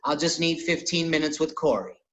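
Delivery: barely put-on, just a hint of Cat; Cat Williams voice. Comic quoting Cat Williams asking for fifteen minutes, lightly imitated. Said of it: "Just Cat Williams voice".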